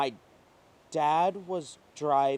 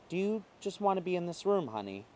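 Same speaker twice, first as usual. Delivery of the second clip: sweet gentle ask; 6 semitones higher, 4 dB quieter, faster than usual. Acted. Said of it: "a sweet lady asks".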